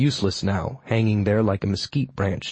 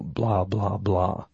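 dismissive; 2 semitones lower, 4 dB quieter, much slower than usual. A narrator's reading. Skipping over a villain's curses.

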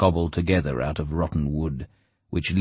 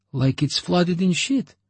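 higher, slow sneering broker; crude broker voice; 13 semitones higher than usual. A narrator's reading. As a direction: drawl it with disgust.

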